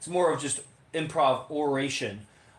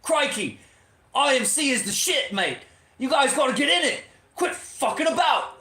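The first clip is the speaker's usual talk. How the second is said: playful put-on Australian accent, pitched higher and a bit louder; mock Australian accent; 8 semitones higher, 3 dB louder than usual. Urging Australian viewers to join, in a mock Australian accent. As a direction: ham up an Aussie bloke hyping it up in an Australian accent. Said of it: "a representative with an Australian accent".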